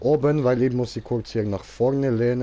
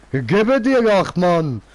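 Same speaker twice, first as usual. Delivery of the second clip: frustrated loud yell; loud outburst; 5 semitones higher, 5 dB louder than usual. Acted.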